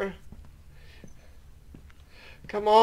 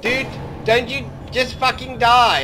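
scared and angry; 3 semitones higher, 5 dB louder than usual. Real, not acted. Monster won't die.

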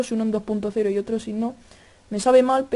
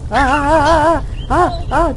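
louder, higher panicked ah-ah-ahs; startled yells; 4 semitones higher, 6 dB louder, slower than usual. Real, not acted. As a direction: yelp in real fright at the noise. Startled by sudden game noise.

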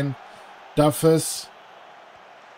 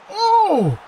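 sudden much higher loud Oh; real shocked cry; startled yelp; 7 dB louder than usual. Real, not acted. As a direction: gasp as the ball nearly goes in. Near miss reaction.

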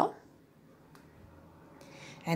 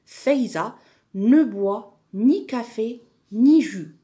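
raised, carefully projected classroom reading; reading aloud; 3 semitones higher, 5 dB louder than usual. Shown as a demonstration. Teacher modelling a sentence for pupils, reading aloud. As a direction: read it out clearly for the class. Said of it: "lis la phrase à haute voix".

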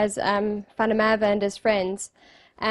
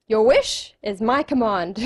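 genie voice. Retold or imitated. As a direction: stretch it out as a genie granting a wish. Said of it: "So the genie goes".

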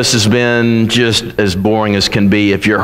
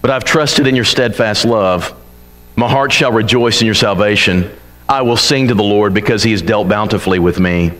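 trusting resolve; 5 semitones lower than usual. Retold or imitated. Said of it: "and then he says".

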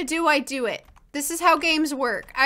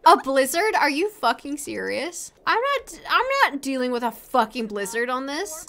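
ordinary talk, nothing marked

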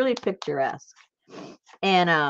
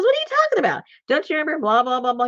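mock disbelief; 9 semitones higher, 4 dB louder, faster than usual. Imitating friend's disbelief.

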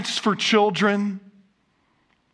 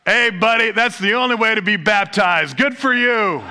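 hearty Baptist; 3 semitones higher, 3 dB louder than usual. Acted. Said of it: "The Baptist said".

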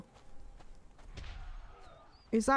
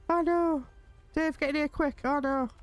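higher, panicky "oh no"; being chased; 5 semitones higher than usual. Acted. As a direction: flee in a panic. Sandstorm chasing, calls cat.

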